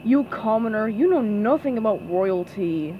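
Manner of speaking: understated haughty put-down; sniffy disdain. Acted. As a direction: look down your nose at a commoner. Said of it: "Squidward sniffed".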